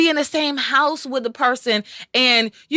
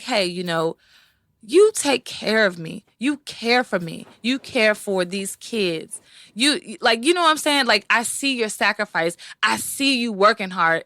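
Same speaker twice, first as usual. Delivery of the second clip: sincere check-in. Shown as a demonstration. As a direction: tell him gently you see his sacrifice. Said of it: "I check in with him and I be like".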